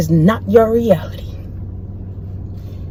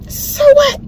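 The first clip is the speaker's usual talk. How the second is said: plain; 12 semitones higher than usual. Real, not acted. Mocking second take.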